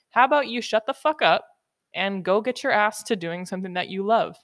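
loud blunt scolding; harsh tough love. Acted. Host scolding listeners the way she talks to herself, loud. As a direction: bark it at a lazy listener. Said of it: "that's how I talk".

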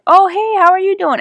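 high, bright hello to a passing celebrity; mock excited greeting. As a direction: squeal a starstruck hey. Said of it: "I'm like".

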